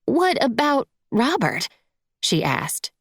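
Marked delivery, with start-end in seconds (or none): 0.1-1.7 high-pitched, edgy woman's question; starting to lose patience, voice pitched up; impatient stepmother, high voice; growing impatience. A narrator's reading. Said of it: "beginning to sound impatient".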